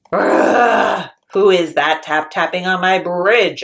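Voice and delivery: loud troll challenge. Acted. Troll loudly challenging middle goat. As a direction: shout it from under the bridge.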